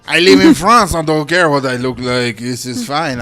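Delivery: put-on French accent. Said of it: "What the fuck kind of accent was that".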